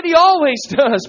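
emphatic repeat. Real, not acted. Preacher repeating the promise to congregation, emphatic. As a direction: proclaim it after the hush.

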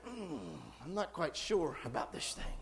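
doubtful murmur with a hesitant mm; unsure voice. Retold or imitated. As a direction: hedge it like you're not convinced. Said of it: "And the voice says".

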